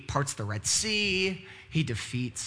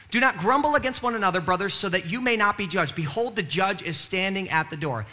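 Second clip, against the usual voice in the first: faster, more urgent reread of the verse; quicker reread. Shown as a demonstration. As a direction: run through it again, pressing on.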